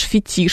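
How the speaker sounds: "Фетиш" stressed on the final -тиш; stress on second syllable. Shown as a demonstration. Host answering the listener's question, "Фетиш" with end stress. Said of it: "французское происхождение у слова".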